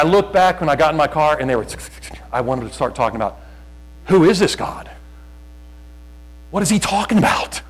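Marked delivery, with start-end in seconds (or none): 4.1-7.6 imagined baffled onlookers. Retold or imitated. Imagined onlookers' reaction in the store.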